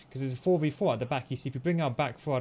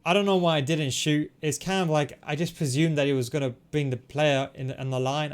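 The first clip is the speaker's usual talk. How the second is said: frustrated; 5 dB louder than usual. Real, not acted. Frustrated at missed shot chance.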